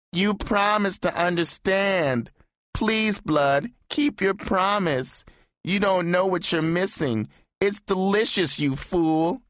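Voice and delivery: high, slow, pleading sob; sobbing. A narrator's reading. Jilted lover sobbing and pleading with Blood to stay. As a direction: beg through tears, wounded. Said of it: "He sobbed".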